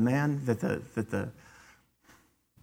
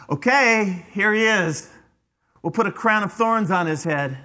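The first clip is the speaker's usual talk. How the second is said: acted jeer, starting high and loud then easing; mocking; 5 semitones higher, 3 dB louder than usual. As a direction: make a show of presenting him in mockery. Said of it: "They were mocking".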